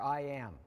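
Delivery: "I am" held up as present tense; stress on "I am". Shown as a demonstration. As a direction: lean on "am" as right now. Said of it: "Notice the present tense there".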